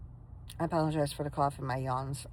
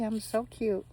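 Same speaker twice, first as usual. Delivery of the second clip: dog voice; 6 semitones higher, slower than usual. Pretend. Voicing the dog.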